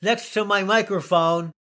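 high, loud, hammed-up British accent; bad British accent. British guest introducing Bruce on the show, bad British accent. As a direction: put on a loud, badly faked British announcer. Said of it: "I can't do the British accent very well".

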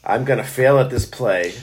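low, hushed confession, played for laughs; mock vulnerable. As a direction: put on a pitiful, vulnerable plea. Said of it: "I'm gonna do the vulnerable".

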